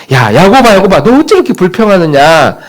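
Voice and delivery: preacher voicing God rebuking Jacob; calling out to Jacob. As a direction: call him out by name. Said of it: "그렇게 말씀합니다".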